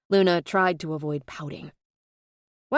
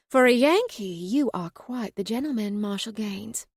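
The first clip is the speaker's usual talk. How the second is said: Southern drawl; 3 semitones higher than usual. Acted. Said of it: "in her most convincing Southern drawl".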